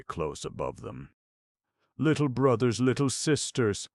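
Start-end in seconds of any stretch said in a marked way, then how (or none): 2.0-3.9 put-on tender, higher call to the children; affectionate. A narrator's reading. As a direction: coax them gently, like a big sister. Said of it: "said Mariah's voice very affectionately".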